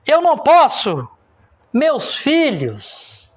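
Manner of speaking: slow, drawn-out mock cry of panic; retold desperate shout. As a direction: cry it out as if imitating a panicked crowd. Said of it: "todo mundo começou a gritar". (grito de desespero imitado, arrastado)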